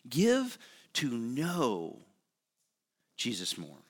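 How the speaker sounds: slow it right down, let it land; slow emphatic repeat. Acted. Preacher urging the congregation, slow and hushed. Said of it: "repeated slowly for emphasis".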